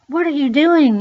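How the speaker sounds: high, loud retold yell of alarm; alarmed shout. Repairman finds child in merry-go-round, alarmed shout. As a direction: shout it like you just caught a kid. Man discovers child in carousel.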